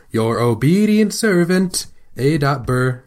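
lightly mock-formal, pitch lifted at first; a hint of old-time letter-writer flourish; old-timey letter sign-off. Showing co-host a fancy way to end a letter, lightly old-timey. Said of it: "like an old-timey way".

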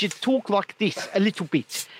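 Australian turned into South African accent. Shown as a demonstration. Host showing the finished accent, put-on South African. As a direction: demonstrate shortened South African speech. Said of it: "but what you do".

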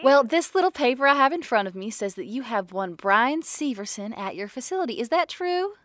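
lightly put-on lady voice; a hint of a sweet-talking stranger; weird put-on voice. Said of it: "The weird voice thing you do kinda freaks me out".

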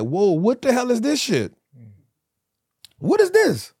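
very high-pitched, incredulous squeal; comically shocked high voice; acted bewilderment. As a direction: play stunned disbelief at the outside world. Acting out shock on release.

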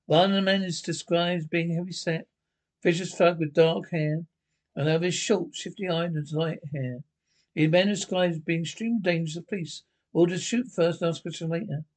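put-on old radio announcer. Radio newsflash describes suspects.

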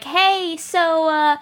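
tentative invitation. Acted. Fan emails asking a hero onto the podcast, tentative high voice. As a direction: lightly play someone sheepishly asking a favor.

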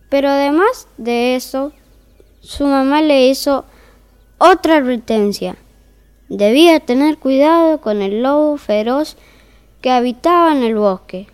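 calm, even fairy-tale reading voice; story narration. A narrator's reading. Narrator opening the tale for listeners, in storytelling voice. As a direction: read it like a bedtime story.

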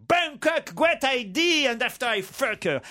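put-on slow, drawn-out franglais with a thick English accent; mock an English toff stumbling over French; hammed-up English accent. English aristocrat answering his friend's advice, in a hammy English accent. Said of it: "Il prend l'accent de Laurel et Hardy".

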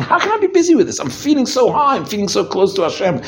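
high, rapt and wondering; lifted up, marveling at how close he feels; elated inner voice. Pretend. Person at Yom Kippur prayer, rapt and soaring. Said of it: "You start saying".

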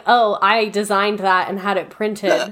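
laughing while quoting an awkward self; a sheepish laugh through the words; laughing at the memory of a bad answer. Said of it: "But instead I was like".

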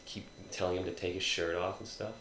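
soft, hushed, intimate telling; near whisper. Real, not acted. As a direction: drop your voice as if sharing something sensual. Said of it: "Why are you, like, whispering? It's, like, very sensual way".

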